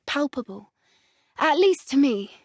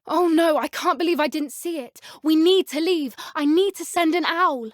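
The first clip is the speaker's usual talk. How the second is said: alarmed; 5 semitones higher than usual. Acted. Sudden alarming realization, urgency.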